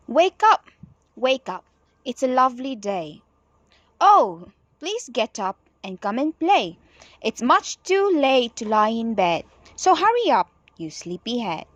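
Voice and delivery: lively sing-song poem reading; reading a poem to children. Acted. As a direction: read it bright and bouncy for the class. Reads the nursery poem aloud.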